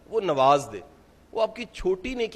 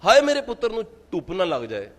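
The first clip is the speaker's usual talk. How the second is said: doting mother; 2 semitones higher than usual. Retold or imitated. Mother fussing over her son.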